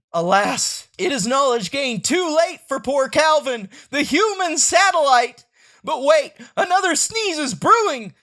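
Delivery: dramatic narration. Acted.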